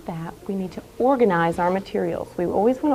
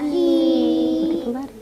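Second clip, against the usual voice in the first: over enunciating; 7 semitones higher, slower than usual. Shown as a demonstration. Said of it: "teacher models slow reading".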